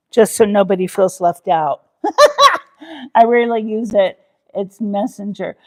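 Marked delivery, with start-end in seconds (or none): 2.0-4.2 laughing. Real, not acted. Laughing at own joke.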